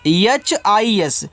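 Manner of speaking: एच आई एस spelled slowly letter by letter; drawn-out classroom spelling. Shown as a demonstration. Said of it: "इसको पढ़ते हैं हिज".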